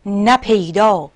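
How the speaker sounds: slow, measured verse reading with pauses between phrases; poem recitation. Acted. (شعرخوانی حماسی، شمرده)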